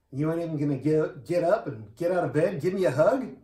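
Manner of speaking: ribbing a bedridden buddy in mock outrage; mock complaint. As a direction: tease a friend for not getting up to hug you. Joking with dying friend.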